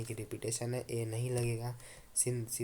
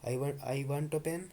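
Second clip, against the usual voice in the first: slow demo leaning on "a"; "I want a pen" said slowly with "a" weighted; stress on a; 3 semitones higher, much slower than usual. Shown as a demonstration. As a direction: hit "a" slowly, for any pen at all. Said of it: "कोई सा भी दे दो".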